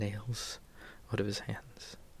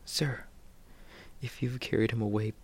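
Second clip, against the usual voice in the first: desperate plea; 3 semitones higher, 4 dB louder than usual. Acted. Mary pleading with the gardener.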